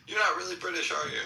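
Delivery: high-pitched challenge from a doubter; sceptical local. Pretend. Imagining a local calling out the accent, sceptical. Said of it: "until somebody's like".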